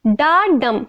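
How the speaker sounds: "डा डम" as one measured foot, stress on डम; unstressed डा, then stressed डम in "डा डम"; single iamb demo. Shown as a demonstration. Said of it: "same example fit करते हैं".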